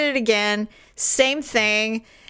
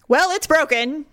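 higher, exasperated imitation; grumpy husband; 5 semitones higher than usual. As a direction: play the grumpy husband stating the obvious. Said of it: "super grumpy".

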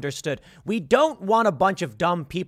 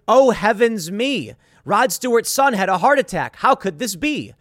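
mock fretting; 4 semitones higher, 4 dB louder than usual. Mock-panicked fake tweet.

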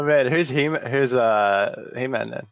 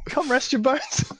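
incredulous; 13 semitones higher, slower than usual. Retold or imitated. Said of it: "is he really saying".

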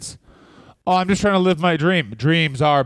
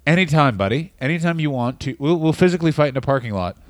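mock challenge to JBL.

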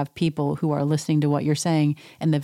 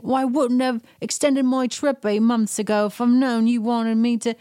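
mock PK; 7 semitones higher than usual. Quoting PK bickering.

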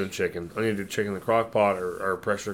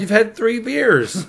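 incredulous teasing; 10 semitones higher, 3 dB louder, slower than usual. Real, not acted. Teasing drunk cohost.

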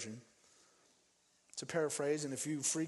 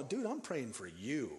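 inner thought; 3 semitones lower, 3 dB quieter, slower than usual. Retold or imitated. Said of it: "In my mind, I'm going".

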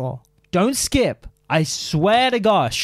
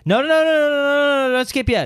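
frantic pleading; 8 semitones higher than usual. Pretend. Pleading viewers not to skip.

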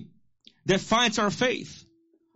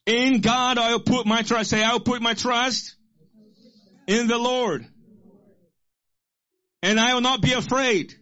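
raised, emphatic preacher's declaration; bold declaration; 4 semitones higher, 3 dB louder than usual. Real, not acted. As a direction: declare it high and strong, phrase by phrase. Leads congregation in declaring verse.

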